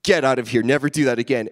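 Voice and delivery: loud retold telling-off; mock angry guard. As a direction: act out a mad border guard. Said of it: "He's just, like, so mad".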